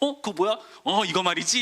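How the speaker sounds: high, loud show-off chatter.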